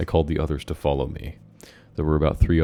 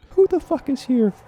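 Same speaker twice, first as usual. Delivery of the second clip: aggressive cop bark; 8 dB louder than usual. Acted. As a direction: grill them like a hothead cop. Cop barks at group.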